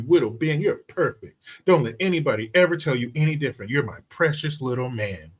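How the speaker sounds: put-on lightly babying mother's coo; lightly mocked doting mom. Mom comforts her little boy, lightly mocked doting coo. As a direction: coddle him in mock baby talk. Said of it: "I'm sure she's sitting right there".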